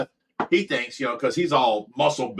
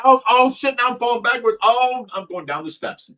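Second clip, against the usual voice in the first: panicked; 9 semitones higher, 4 dB louder than usual. Retold or imitated. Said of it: "I'm like".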